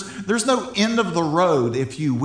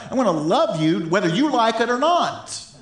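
higher, emphatic vow of love; insistent declaration; 6 semitones higher than usual. Acted. Preacher voicing the Lord's unconditional love, insistent. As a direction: declare it stubbornly, pitched up.

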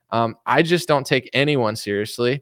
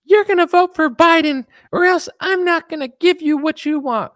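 high, loud nagging wife voice; bossy wife; 14 semitones higher, 6 dB louder than usual. Acted. Wife ordering her husband how to vote, high and loud. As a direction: boss him around like a demanding wife.

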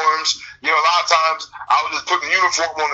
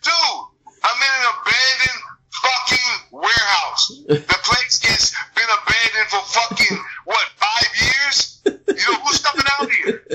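higher and slowed, disbelieving; indignant retort; 5 semitones higher, slower than usual. Retold or imitated. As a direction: drag it out in outrage. Repeats the warehouse retort, slower.

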